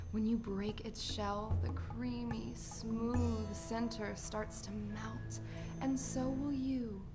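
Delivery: slow, soft, drawn-out ad voice; indulgent ad read. Acted. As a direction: linger softly over each creamy word. Smooth chocolate ad read.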